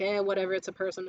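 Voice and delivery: low, offhand indifference; laissez-faire. Retold or imitated. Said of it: "like, laissez-faire".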